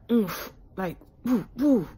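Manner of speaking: punchy little oomph, then airy woos; imitated whooshes of intensity; emphatic effort noises. Shown as a demonstration. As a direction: puff out woo as a sound effect. Puts a feeling into noises.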